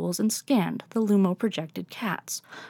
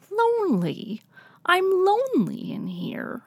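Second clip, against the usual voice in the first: much higher, plaintive cat voice; high, pleading cat program; lonely ghostly cat; 11 semitones higher than usual. Acted. Silver tabby program speaks.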